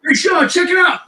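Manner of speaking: high, loud calling out; drunk call out. Retold or imitated. Drunk singer calling his buddy over, loud call. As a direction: yell it across the room, tipsy and gleeful.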